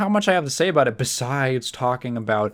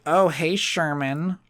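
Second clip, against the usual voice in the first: lightly voiced little girl, badly faked; a half-hearted attempt at a girl's voice; terrible little girl voice; 2 semitones higher, 4 dB quieter, slower than usual. Bitchy girl walks up to Sherman at lunch, weak little girl voice. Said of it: "That's a terrible little girl voice".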